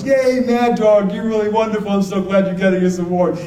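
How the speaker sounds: high, cheering mock praise; gushing congratulations. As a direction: gush like a proud old priest at an award. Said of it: "he stands up and he goes".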